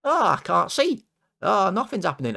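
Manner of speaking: high, whiny helpless cry; mock panicked guard. Security guard mocking himself in a high helpless voice. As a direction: play the useless guard who can't see a thing. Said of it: "and I'm there, like this".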